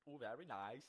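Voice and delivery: badly faked German accent; attempted German accent. Trying out a German accent for his co-host, botched German accent. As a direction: have a go at German and miss. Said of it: "how do you do a German accent?".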